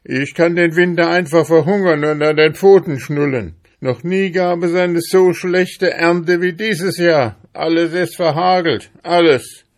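high, loud, indignant tirade; loud, worked-up outburst of protest; angry shouting. A narrator's reading. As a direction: shout in outraged denial. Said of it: "schrie Ambrosius Dauerspeck wütend".

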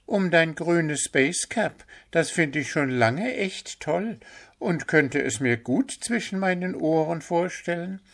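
high, bright-eyed deer voice; eager young deer. A narrator's reading. Deer Pünktchen defends Willi to Puh, high eager voice. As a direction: insist with admiring enthusiasm.

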